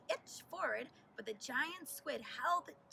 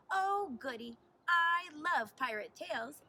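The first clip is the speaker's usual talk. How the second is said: louder, eager and delighted; delighted mermaid; 2 semitones higher, 6 dB louder than usual. A narrator's reading. Mermaid thrilled to hear a pirate story, eager. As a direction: gush over pirate tales like a happy mermaid. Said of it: "answered the mermaid".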